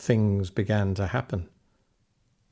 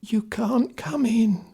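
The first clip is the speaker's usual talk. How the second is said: put-on high, slow old woman's whisper; whispered warning; 12 semitones higher, slower than usual. Old woman at the door warning Jack, whispering. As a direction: hush him away, breathy and slow. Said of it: "she whispered".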